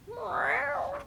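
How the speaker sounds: high, soft mewing cat voice; a kitten's little cry; cat's meow. Acted. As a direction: mew like a small cat. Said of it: "Kitty yelled".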